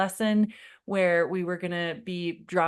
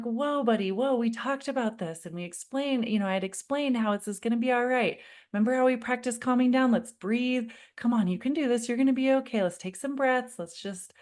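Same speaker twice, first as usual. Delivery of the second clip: higher, bright coaxing soothe; soothing; 6 semitones higher than usual. Retold or imitated. Mom coaxing her son at the pool, higher soothing. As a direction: coax a panicking child to calm down. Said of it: "I'm like".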